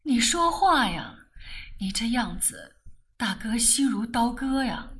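begging her to answer; pleading. Acted. Brother begs heartbroken sister to talk, pleading. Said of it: "我哀求".

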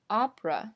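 opera as AH-pruh; two-syllable opera, first one stressed. Shown as a demonstration. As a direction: lean on the start of opera. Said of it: "它的重音在第一个上".

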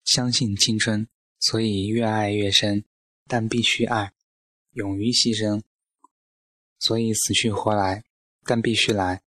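short measured phrases, lightly declaimed; improvised recitation. A narrator's reading. Narrator hastily recites for the old lady, lightly declaimed recitation. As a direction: recite it like verse, pausing between phrases. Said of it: "我赶紧现场朗诵".

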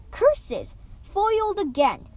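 mock villain dismay. A narrator's reading. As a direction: play the foiled baddie, cartoon-style.

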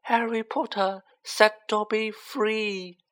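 high, slow, shrill elf voice. A narrator's reading. Freed Dobby gazing up at Harry, shrilly. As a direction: pipe it out shrilly, drawing out words. Elf's shrill speech continues.

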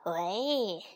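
drawn-out snake call; menacing snake hailing its prey; hissing snake. A narrator's reading. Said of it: "蛇嘶嘶地说".

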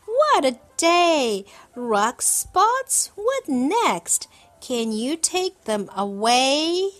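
high, loud and worried; panicked child. A narrator's reading. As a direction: fret loudly at the mess. Child panicking at rug spots.

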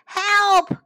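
high, loud cry of alarm; crying for help. A narrator's reading. Otters to all as developers arrive, crying out. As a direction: call out urgently, drawn out. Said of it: "cried the otters".

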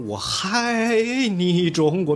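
爱 mispronounced as 嗨, high and loud, dragged slowly; mock the student who sings 我嗨你中国 high and stretched; mocking wrong diction. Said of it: "他的学生曾经都唱成".

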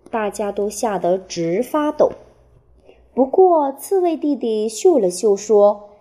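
put-on reading a picture book to children; expressive storytelling, phrase by phrase with clear pauses; 给孩子读故事. A narrator's reading. (绘声绘色地给孩子讲故事)

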